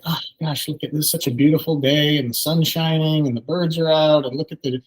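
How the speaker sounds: cheerful delight at the park. Retold or imitated. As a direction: share your joy with the kids, like a mild show of wonder. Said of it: "at the park with my kids and just say".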